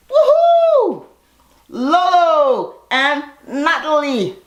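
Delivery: high, slow hammed-up award announcement; mock award announcer. Vlogger mocking the girls' acting, hammed-up announcer. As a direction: announce the winners like a gala host. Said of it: "And the Academy Award goes to".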